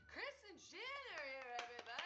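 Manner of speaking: excited announcement. Real, not acted. Introducing guests to viewers.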